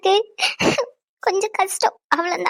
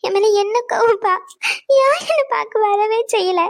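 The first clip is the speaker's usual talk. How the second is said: slow, tearful pleading; tearful reproach; 3 semitones higher than usual. Acted. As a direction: plead slowly through tears. Daughter weeping, reproaching father.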